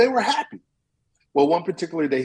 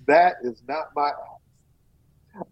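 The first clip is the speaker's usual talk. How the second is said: slow, firm denial; much slower than usual. Acted. Honest woodcutter refuses gold.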